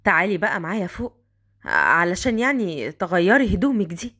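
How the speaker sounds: put-on a man coaxing the girl upstairs.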